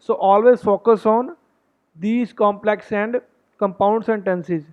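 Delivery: slow, deliberate reading of a tip. Acted. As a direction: read each word out slowly for the class. Reads out a tip slowly. (धीमी, सधी हुई पढ़ाई)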